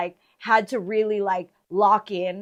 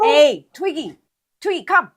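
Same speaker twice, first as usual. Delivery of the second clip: calling the dog; 6 semitones higher, 9 dB louder than usual. Real, not acted.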